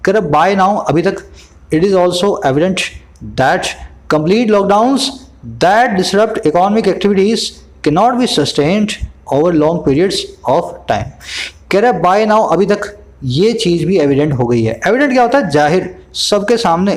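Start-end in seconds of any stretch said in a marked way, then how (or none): 1.7-11.0 reads the English line slowly, word by word; slow news reading. Acted. Teacher reads the news line to his students, slow and measured. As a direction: lay out each phrase slowly for the class.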